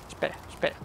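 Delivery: breathless whisper to himself; whispered aside. Real, not acted. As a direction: hush and stop yourself. Stops himself under breath. (susurro: espera, espera)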